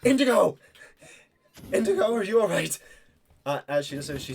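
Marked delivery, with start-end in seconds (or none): 0.1-2.8 high, loud worried call. Acted. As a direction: shout across the fighting. Knight calls out in battle.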